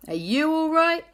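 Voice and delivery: rising, worried ask; concerned question. Acted. Friends asking Jack with high concern. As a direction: check he's okay, pitch up high.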